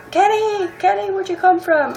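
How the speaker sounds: high, squealing call to Kenny; excited fan squeal. Retold or imitated. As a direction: call out to him like a starstruck fan. Fans spotting Kenny suddenly.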